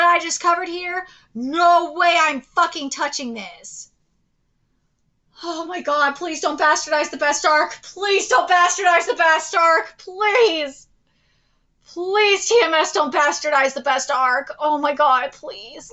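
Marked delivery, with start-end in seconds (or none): 5.4-15.9 exasperated, repeated begging; pleading. Real, not acted. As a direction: implore them with emphatic pleases. Repeatedly begs studio not to bastardize.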